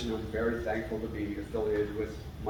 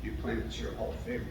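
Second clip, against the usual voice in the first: choked up; 4 dB quieter than usual. Real, not acted. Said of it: "sorry for getting a little emotional".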